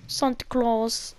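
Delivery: "Santa Claus" slowly as SAHN-tuh; Spanish pronunciation. Shown as a demonstration. Repeating it back to a friend, "Santa Claus" as slow SAHN-tuh. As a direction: open "ah" in "Santa", both words stretched. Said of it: "They pronounce it Santa Claus in Spanish".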